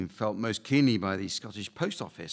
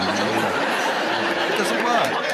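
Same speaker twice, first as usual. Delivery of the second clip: stretched slow words through laughter; slow laughing verdict; 6 dB louder, much slower than usual. Real, not acted. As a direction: laugh while saying it doesn't work. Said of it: "host laughing verdict".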